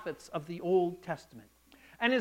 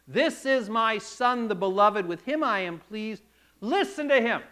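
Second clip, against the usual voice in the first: voice of God; 5 dB louder than usual. Retold or imitated. Voice of God from cloud.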